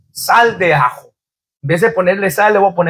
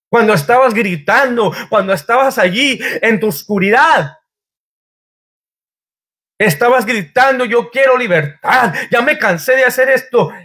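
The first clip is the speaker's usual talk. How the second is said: 1 rising plea; 5 semitones higher than usual. Acted. Preacher's rising appeal.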